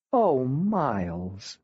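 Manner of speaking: very slow, aching sigh of sympathy; slow pitying mother; sympathetic mom. Acted. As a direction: melt with pity for your son. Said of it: "Mom said".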